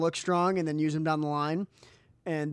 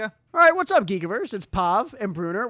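loud, high hype greeting; excited intro; 5 semitones higher, 6 dB louder than usual. Real, not acted. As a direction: pump up the crowd. Podcast intro greeting, hyped.

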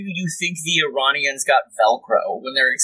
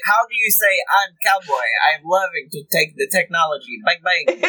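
higher-pitched, hammed-up Israeli accent; Israeli dad accent; 4 semitones higher than usual. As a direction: imitate an Israeli grandpa fumbling for English, thick accent. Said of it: "Israeli dad or grandpa".

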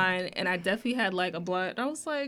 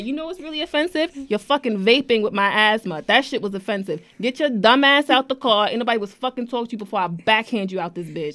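heated telling-off, louder in bursts; retold angry outburst; 4 dB louder than usual. Telling off passenger leaving the car, retold angry outburst. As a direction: act out the outburst, punching it louder in places. Acted quarrel with departing passenger.

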